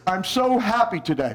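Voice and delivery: glum delivery through a pushed-out lip; slumped, pouty, sinking at the end; pouting, droopy. Shown as a demonstration. Teacher showing parents how body colours voice, pouting. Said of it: "Pooch out your bottom lip".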